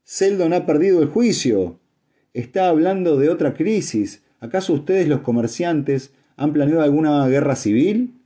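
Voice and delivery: shouted accusing questions; outraged shout. A narrator's reading. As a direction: cry out in disbelief, pitched well up. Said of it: "Gritó".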